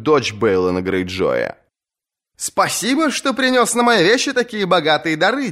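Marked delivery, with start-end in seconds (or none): 2.4-5.5 much higher, sweetly sarcastic thanks; mocking young woman. Asha thanks her uncle Victarion, higher sarcastic voice. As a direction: needle the uncle with false gratitude.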